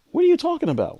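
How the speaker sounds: high, stunned What are you talking about; shocked disbelief. Retold or imitated. Husband shocked as his wife talks of dying, high stunned cry. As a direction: blurt it out, caught off guard. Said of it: "And I'm like".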